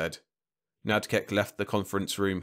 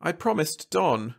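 higher, slow and coy; demure; 8 semitones higher than usual. A narrator's reading. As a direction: say it shyly, eyes lowered. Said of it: "she said demurely".

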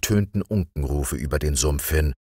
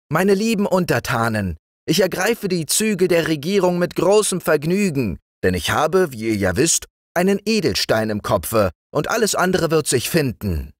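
the new frog king, pleased with himself; gracious frog king; 11 semitones higher than usual. Acted. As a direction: address your subjects grandly. King addresses subjects.

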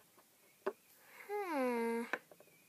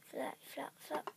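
softer, unvoiced flop sounds; whispered flops; 4 semitones lower, 11 dB quieter than usual. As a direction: breathe each flop quietly. Sneaking flight.

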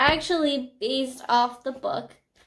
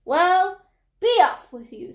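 dismissive troll; 6 semitones higher, 4 dB louder than usual. A narrator's reading. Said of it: "said the troll".

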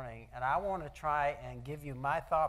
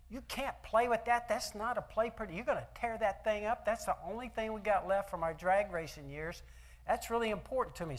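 raised, higher scolding of a grandson, light and half-serious; mock scolding; 6 semitones higher than usual. Grandpa scolds the grandson over the drag racing car, mock-stern. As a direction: playfully tell the kid off over the toy car.

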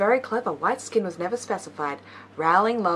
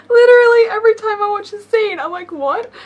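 exasperated; 13 semitones higher, 9 dB louder than usual. Real, not acted. Exasperated reaction while watching.

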